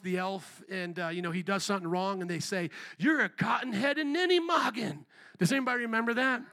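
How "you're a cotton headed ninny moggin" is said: a hammed-up elf insult; mock scolding. Quoting The Elf to the congregation, mock scolding.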